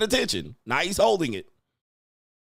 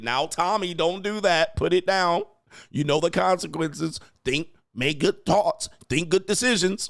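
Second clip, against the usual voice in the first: mock soft parent; 3 semitones higher than usual. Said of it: "puss-ass parent and you letting your kid run all over you, trying to negotiate it".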